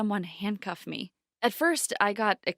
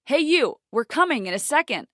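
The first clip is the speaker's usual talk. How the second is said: higher, louder call back; calling through door; 7 semitones higher, 7 dB louder than usual. A narrator's reading. Captor calling back to the trapped girl, loud.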